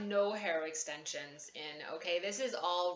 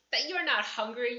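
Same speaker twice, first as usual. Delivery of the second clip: loud, sharp scolding from an offended mother, higher pitch; angry mom; 6 semitones higher, 8 dB louder than usual. Retold or imitated. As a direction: snap back like an offended mom. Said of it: "she'd get really mad and triggered and be like".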